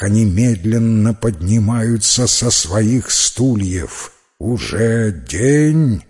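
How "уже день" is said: very slow, drawn-out drowsy question; sleepy voice. Acted. Waking knight asks if it is day, sleepy drawl. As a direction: stretch each word as if just waking. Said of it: "спросил один сонным голосом".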